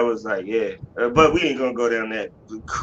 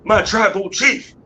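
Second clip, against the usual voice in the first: high, loud, gushing fan voice; teasing with an over-the-top fan declaration; mock adoring fan; 11 semitones higher, 6 dB louder than usual. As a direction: ham up a swooning fan calling out. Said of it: "I was about to say".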